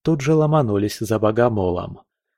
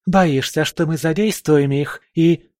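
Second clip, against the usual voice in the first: angry taunt; 6 semitones higher than usual. A narrator's reading. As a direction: needle him angrily. Valkyrie taunts Oleg. (гневная насмешка)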